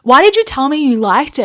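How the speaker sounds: a touch of heated outrage at mum; retelling the angry phone call to mum, mildly heated. Retold or imitated. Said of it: "I was like".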